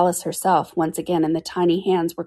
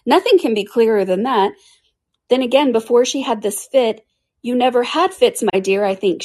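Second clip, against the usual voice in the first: self-satisfied king; 5 semitones higher, 4 dB louder than usual. Acted. King accuses before the queen.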